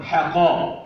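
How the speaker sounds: حقا with thin "ha" then dark "qa"; light ح, heavy ق. Shown as a demonstration. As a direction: thicken only ق in حقا. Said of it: "حاء مرققة، القاف مفخمة". (حقا بترقيق الحاء وتفخيم القاف)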